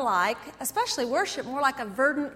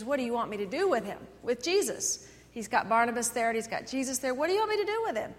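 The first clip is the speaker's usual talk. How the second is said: Pilate's question; faster than usual. Retold or imitated. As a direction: ask the crowd quickly like Pilate. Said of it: "Pilate gets up and he says".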